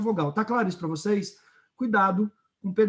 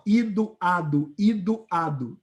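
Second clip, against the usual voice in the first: "Ido, ado, ido, ado" chanted out as separate rhymes; rhyme endings isolated; slower than usual. Shown as a demonstration. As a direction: punch out "Ido", drop on "ado", alternating. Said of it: "vogais e consoantes rimando". ("Ido, ado, ido, ado" com as rimas destacadas, alternando)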